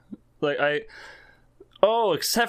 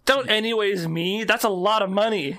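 indignant; 6 semitones higher, 3 dB louder than usual. Real, not acted. Protesting friend's change of subject.

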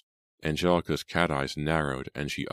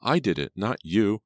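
higher, louder, gleeful; exclaiming; 5 semitones higher, 4 dB louder than usual. A narrator's reading. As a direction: crow with glee. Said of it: "exclaimed through her tears of laughter".

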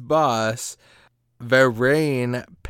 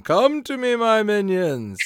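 boss yell; 10 semitones higher, 5 dB louder than usual. Retold or imitated. Host imitates the Rat Whisperer calling his minions, hammed-up high yell. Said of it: "he's just yelling".

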